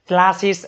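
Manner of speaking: ક્લાસીસ said as "chlasis", CH in place of K; misreading with CH. Shown as a demonstration. Teacher rejects someone's misreading of ક્લાસીસ, with CH. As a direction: swap the K of ક્લાસીસ for a CH. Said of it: "નો થાય".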